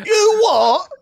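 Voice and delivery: high, loud, over-the-top fake British accent. Host voices a British character complaining, fake British accent. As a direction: play a British bloke who is fed up, in a hammy British accent. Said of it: "my fake British accent".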